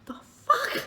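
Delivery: very high incredulous squeak with a laugh; high laughing the fuck; shocked laughing disbelief. Retold or imitated. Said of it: "I'm like".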